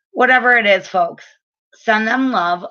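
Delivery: usual speaking voice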